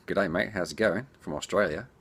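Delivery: a light stab at an Australian accent; playful Aussie greeting in a put-on Australian accent. Shown as a demonstration. Host greeting an Australian viewer, mock Australian accent. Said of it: "That's my Australian accent".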